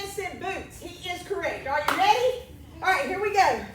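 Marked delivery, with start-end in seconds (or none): 1.7-3.6 louder, hyped-up announcement; excited. Real, not acted. Hyping the class up.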